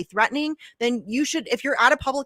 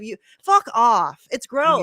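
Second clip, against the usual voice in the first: louder, slow, disgusted fuck off; fired up; 5 dB louder, slower than usual. Real, not acted. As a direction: spit it out in real anger. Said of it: "I get fired up about this shit".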